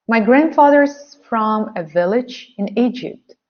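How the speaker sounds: careful modelled reading for learners. Shown as a demonstration. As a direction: read clearly for repetition. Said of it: "Again, I can repeat that".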